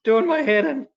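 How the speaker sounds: hammed-up weary annoyance; mock exasperation. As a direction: moan it in comic despair. Acted exasperated reaction to Ahab.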